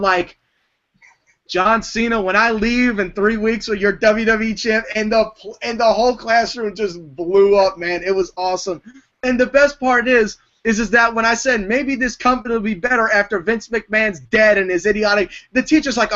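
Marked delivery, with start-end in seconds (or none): 1.5-4.8 lightly raised, higher promo delivery; half-performed wrestling promo; retold promo rant. Retelling his class speech, mildly re-performing the Punk rant. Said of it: "the C M Punk rant". 11.7-15.3 lightly raised, higher promo delivery; half-performed wrestling promo; retold promo rant. Quoting his class speech, mildly re-performing the Punk rant. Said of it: "the C M Punk rant".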